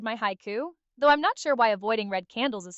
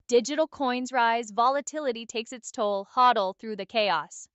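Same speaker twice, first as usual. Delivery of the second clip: recited haiku. Acted.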